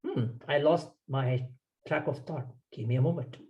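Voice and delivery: calm admission of losing track; smiling, relaxed. Shown as a demonstration. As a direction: say it lightly with a smile. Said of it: "And then smile and say".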